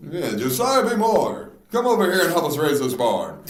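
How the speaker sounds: lightly voiced old-time farmer; a hint of a hearty Amish barn-raiser. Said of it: "Sounds like a good Amish name".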